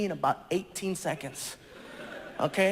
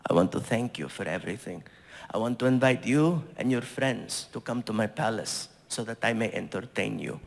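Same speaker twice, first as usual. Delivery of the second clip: much lower, formal gracious invitation; prince's voice; 10 semitones lower than usual. Retold or imitated. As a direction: invite him warmly like royalty. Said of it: "he says".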